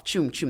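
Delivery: spoken "choom, choom" swoosh; whooshing take-off sound. Retold or imitated. Climber mimicking others sliding off down the chute, mock whoosh. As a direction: imitate people zooming away.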